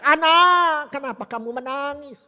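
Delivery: put-on high, loud anguished cry to his child. Father finding his dead daughter, loud anguished cry. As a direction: wail the name, then let it sag. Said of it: "Papa menangis berteriak".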